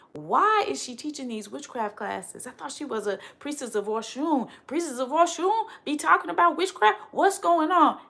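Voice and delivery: puzzled onlookers, their questions climbing in pitch; mock critics. Voicing a confused follower who questions her witchcraft, mock puzzled.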